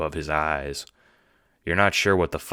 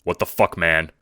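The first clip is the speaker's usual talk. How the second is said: defensive; 5 dB louder than usual. Acted. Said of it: "you say defensively".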